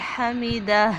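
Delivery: हमीदा with the हा breathed from mid-throat; tajweed demo. Shown as a demonstration. Teacher models हमीदा for students, throaty हा. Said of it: "हमीदा में हा जो है वो वस्ते हलक से निकालेंगे".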